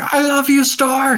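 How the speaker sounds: very high, very slow, drawn-out holler. Retelling a fan yelling to a player at a shirt signing, retelling yell in Moltrap's voice. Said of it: "he just yells in his moltrap voice".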